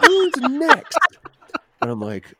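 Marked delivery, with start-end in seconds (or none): 0.0-1.2 very loud, high impatient shout; yelled summons. Retold or imitated. Casting agent calling the next auditioner, yelling. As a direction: shout it out to a waiting room. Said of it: "yelling down the hall".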